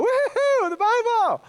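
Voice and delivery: high, loud cheering whoop; joyful church cheer at the Bible; scream. Shown as a demonstration. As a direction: whoop it like a fired-up crowd. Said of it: "they scream when they open the Bible".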